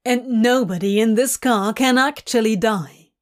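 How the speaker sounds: put-on mildly exasperated, arguing an old point; Crowley, fed up. Demon driver to nervous angel, mildly exasperated. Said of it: "his voice telling that this isn't the first time".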